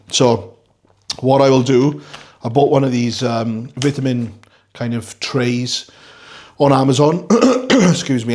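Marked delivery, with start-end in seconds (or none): 3.2-7.3 groggy. Real, not acted. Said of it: "I am groggy".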